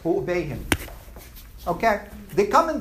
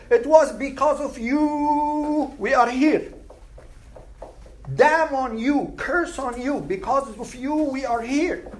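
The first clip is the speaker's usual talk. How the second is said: accusing lament; 5 semitones higher than usual. Retold or imitated. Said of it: "they say".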